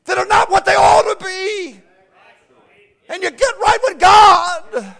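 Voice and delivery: shouted, high-pitched preacher's cry; fiery revival preaching; full-force preaching. Acted. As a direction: bring it up to a roaring pulpit shout.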